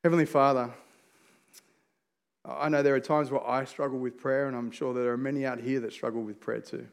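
earnest pastor's prayer. Real, not acted. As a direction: pray aloud, low and sincere.

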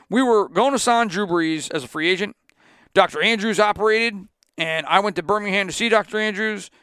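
lightly put-on Southern coach accent, fast; terrible Nick Saban accent. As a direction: do a bad Saban impression. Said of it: "This is my terrible Nick Saban accent".

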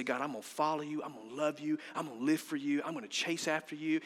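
softly spoken, devoted pledge; soft prayer. Acted. Believer promising God to follow, soft prayer. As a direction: pledge it quietly, line after line.

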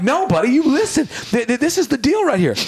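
hammed-up gangster voice; gangster dad. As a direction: play the tough guy to your son. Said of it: "gangster on him".

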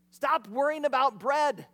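slow it down and press each word; a teacher's firm stop; firm rebuke. Retold or imitated. Jesus rebukes worried disciples.

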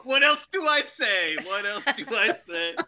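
slow, hammed-up New York accent; mock New Yorker, stretched out slowly. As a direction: lean into a drawn-out New York catchphrase. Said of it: "you know what we say in New York".

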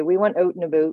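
"out and about" with oo vowels, like "oot and aboot"; Atlantic Canadian accent. Shown as a demonstration. Canadian quoting people from home, Atlantic Canadian accent. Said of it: "They would say".

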